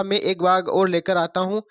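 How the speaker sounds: a hint of the tiger backing off; tiger's excuse. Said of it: "वह कांच वाले से बोला". (हल्के से डरे बाघ की आवाज़ में)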